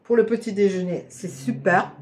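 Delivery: talking with mouth full; chewing while talking. Real, not acted. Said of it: "Pardon, par la bouche pleine".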